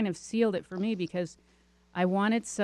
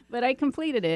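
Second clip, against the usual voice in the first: laughing; 6 semitones higher, 3 dB louder than usual. Real, not acted. Laughing after her laugh.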